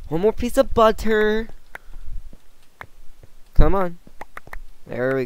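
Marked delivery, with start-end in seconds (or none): 0.1-1.5 silly high-pitched joke voice; squeaky high voice. Real, not acted. Jokey rename of the gold. 3.5-4.0 loud impatient urging. Real, not acted. Urging the game on.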